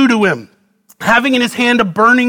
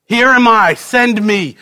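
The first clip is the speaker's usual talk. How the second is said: rally shout; 3 semitones higher than usual. Shown as a demonstration. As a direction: shout it like the altar call climax. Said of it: "Climax received".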